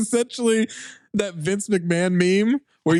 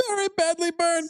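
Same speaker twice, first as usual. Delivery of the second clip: put-on high old-timey newsreel voice; 1950s narrator; 14 semitones higher, 3 dB quieter than usual. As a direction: read it like a newsreel announcer. Mock announcer repeating line.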